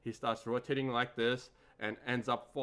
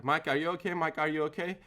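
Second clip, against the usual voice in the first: raised, pressing retold questions; louder and higher, repeated anxiously; urgent checking; 5 semitones higher, 4 dB louder than usual. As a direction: imitate urgently checking on an injured friend. Retold urgent check on injured trainee.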